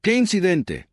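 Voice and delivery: rising pitch, barely keeping calm; controlled panic. A narrator's reading. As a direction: voice jumps up in held-down panic. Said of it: "Su tono de voz se elevó ligeramente".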